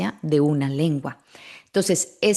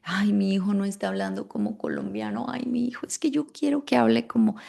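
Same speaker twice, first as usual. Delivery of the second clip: fretful parent voice, a bit higher at the end; mock worried parent; 3 semitones higher, faster than usual. Parent afraid child won't sound Colombian, mock worried. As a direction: mimic an anxious mother fretting, lightly hammed. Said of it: "miedo que han tenido de".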